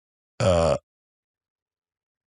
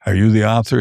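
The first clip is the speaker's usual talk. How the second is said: mildly excited, higher pitch; retold excitement, a bit higher; excited fan; 4 semitones higher, 4 dB louder than usual. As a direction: imitate an eager fan asking. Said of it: "he was so excited".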